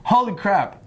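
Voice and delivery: ordinary delivery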